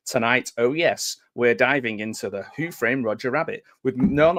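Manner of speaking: mock retro show host opening; hammed-up show intro. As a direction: announce the stream like a cheesy TV host. Reading AI script as host.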